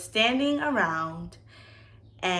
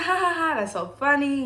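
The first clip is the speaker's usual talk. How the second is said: mock laughter; 8 semitones higher, 3 dB louder than usual. Acting out her amused reaction.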